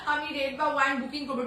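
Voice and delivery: slow and clear, one word at a time; said slowly. Shown as a demonstration. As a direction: spell out আমি red বা wine booking করব slowly for the viewer. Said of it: "আস্তে আস্তে বলবো". (ধীরে ধীরে স্পষ্ট করে বলা)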